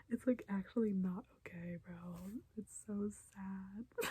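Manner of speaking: choked up and slowing down, close to crying; real tearful whisper. Real, not acted. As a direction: let the sadness catch your voice as it trails off. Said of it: "I really did cry during the episode".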